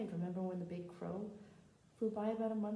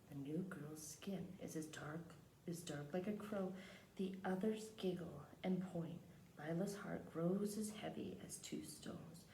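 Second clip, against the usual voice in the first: measured picture-book reading; read-aloud narration; slower than usual. Acted. Teacher reads a picture book to the class, measured storytelling. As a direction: read the story out unhurriedly, phrase by phrase.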